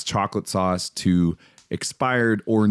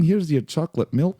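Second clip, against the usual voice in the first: higher mock Russian accent; Russian accent, handing over milk; 8 semitones higher than usual. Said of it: "Love your Russian accent".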